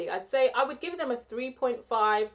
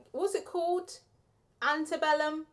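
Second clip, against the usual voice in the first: ordinary talk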